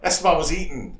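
mock scream. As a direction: imitate a film character's cry, only mildly. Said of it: "he's, like, screaming".

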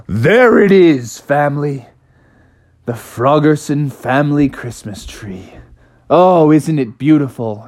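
a frog dad beaming at his find; proud father frog. Acted. Father frog proudly presenting the tree to family.

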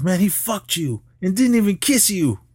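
high teasing movie-friend voice; mocking friend. Retelling a friend's crude joke about Kid, high and mocking.

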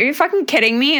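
high, incredulous retelling; mild mock outrage at the slope; mock disbelief. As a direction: throw up your hands in disbelief. Her retold disbelief at moguls.

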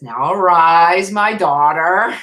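slow, emphatic call to rise; voice of Jesus. Retold or imitated. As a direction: summon a daughter slowly and firmly. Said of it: "he says".

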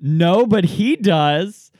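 slow, loud, high pointed retort; mock mom retort. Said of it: "And she went".

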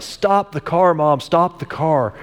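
put-on high urgent kid's cry to stop; mild mock yell. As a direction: call out as an excited boy in the back seat. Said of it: "starts yelling at her".

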